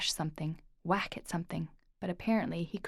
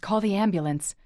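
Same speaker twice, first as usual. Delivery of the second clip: louder urgent order; exclaiming; 7 dB louder than usual. Acted. Uncle seeing his brother collapsed, urgent loud order. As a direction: bark the order in alarm. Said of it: "Lorcan exclaimed".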